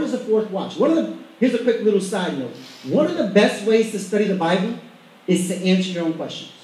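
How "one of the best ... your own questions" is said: measured emphasis. Shown as a demonstration. Preacher giving the congregation a study tip, measured and emphatic. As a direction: lay the point out in two unhurried parts. Key point stated, then repeated.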